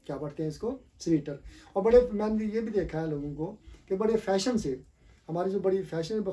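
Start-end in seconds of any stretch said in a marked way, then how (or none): 1.0-1.4 "स्वेटर" as SWEE-tar; long ee in स्वेटर; wrong pronunciation. Retold or imitated. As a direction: say स्वेटर like "sweeter". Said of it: "ये लफ्ज़ स्वेटर नहीं होता".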